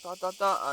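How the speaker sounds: soft "ta, ta, ta" knocking sounds; imitated knocking. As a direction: voice a light door knock. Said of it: "he knocked".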